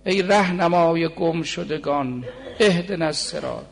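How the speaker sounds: hushed recited couplet with a falling refrain; poem recitation. Acted. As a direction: let each word of the verse hang.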